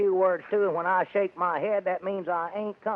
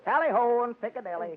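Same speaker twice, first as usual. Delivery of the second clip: a hammed-up English butler catchphrase said with a laugh; fake British accent; 4 semitones higher than usual. Butler shows the lady in with a hammed-up British accent. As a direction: chirp it like a mock Londoner. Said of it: "your man has a rather peculiar accent".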